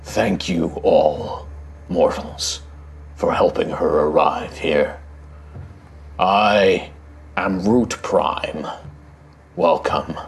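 slow, solemn ancient guardian voice; deep rumbling voice. Acted. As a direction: speak like a weighty stone guardian. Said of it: "this deep rumbling voice".

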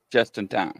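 "Just in time" run into one quick phrase; said run together. Shown as a demonstration. Host showing how the screen name sounds, run together. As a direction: blend "Just in time" together without a break. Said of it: "You said that real fast".

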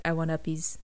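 a lightly voiced baby wanting uppies; Grogu asking to be held. Fan retelling the finale, voicing the baby asking up, mild childlike voice. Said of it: "He's like, he's like".

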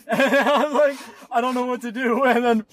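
laughing through the words; cracking up mid-sentence. Real, not acted. Laughing while retelling panic.

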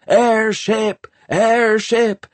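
high, drawn-out lookout's cry; alarmed shouting. A narrator's reading. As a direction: raise the alarm, calling out high and loud. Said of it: "someone was shouting".

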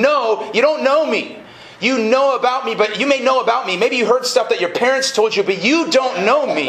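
God correcting Israel. Acted. God answering the people of Israel, insistent correction. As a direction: press the rebuke, stretching the opening refusal. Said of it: "And God's going".

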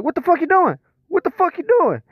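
high, alarmed, repeated cry; panicked yelp. Retold or imitated. Man in pain yelping at his partner. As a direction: squeal it out in painful alarm.

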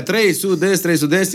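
mock crowd yell. Fans answer with the band's name, mock yell. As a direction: mimic chanting fans at talking volume. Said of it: "Și aia țipau".

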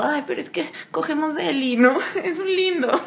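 high, giggly smitten voice; lovestruck excuse. Retold or imitated. Answering her friend, giggling and smitten. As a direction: defend him like a smitten girl. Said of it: "y yo".

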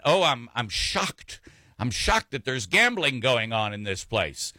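hammed-up mock surprise, lightly voiced; mock shocked quote. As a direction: play it as the famous fake-shocked line.

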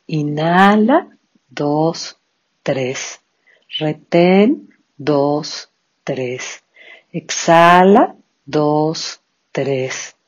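each cue called out rising, counts fading; slow breath counting. Shown as a demonstration. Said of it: "Vamos a comenzar entonces con nuestro pranayama".

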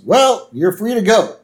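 a lightly voiced prime minister handing out a sentence. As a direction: play the smug Prime Minister. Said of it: "the Prime Minister goes".

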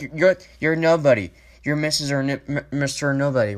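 heated, worked-up rant; getting angry. Real, not acted. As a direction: let real anger flare up at her. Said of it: "I don't wanna get all angry right now".

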